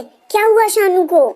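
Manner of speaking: high, alarmed question; mother-in-law panicking on the phone, pitch up; panicked. Acted. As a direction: ask in sudden fright. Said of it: "घबराहट में कहती है".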